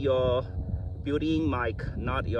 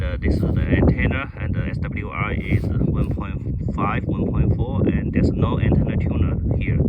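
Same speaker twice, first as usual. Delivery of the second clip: loud; 4 semitones lower, 7 dB louder than usual. Real, not acted. Longer test call over weak radio.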